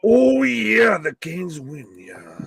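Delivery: high, loud shouted imitation of a fan; hammed-up fan shout; mock fan cheer. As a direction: ham up a cheering fan reading. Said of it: "says Bobby".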